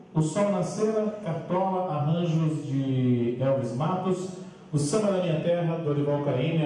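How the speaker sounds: fast, lifted emcee voice; grand entrance announcement. Acted. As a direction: present the choir like a master of ceremonies.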